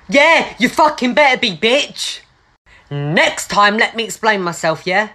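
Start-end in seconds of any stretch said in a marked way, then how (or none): 0.1-2.2 angry comeback. Acted. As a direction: bite back at her hard. Student rounds on teacher.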